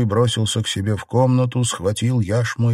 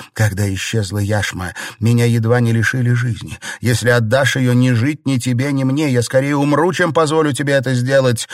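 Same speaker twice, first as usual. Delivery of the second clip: wailing; 4 semitones higher, 4 dB louder than usual. A narrator's reading. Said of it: "запричитала".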